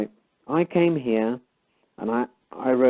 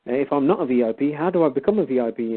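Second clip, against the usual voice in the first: mock-indignant, with swooping pitch; lightly sarcastic retold comeback; making fun; 2 semitones higher than usual. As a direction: play up the wide-eyed question, teasing. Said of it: "then I started making fun".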